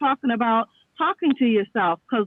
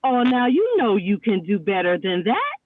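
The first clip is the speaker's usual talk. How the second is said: lightly voiced mother, lower pitch; a hint of a parent's reproof, dropped low then lifting at the end; mother's chiding; 5 semitones lower than usual. Mother to child after a mistake, lightly imitated chiding. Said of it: "I would just hear my mother saying".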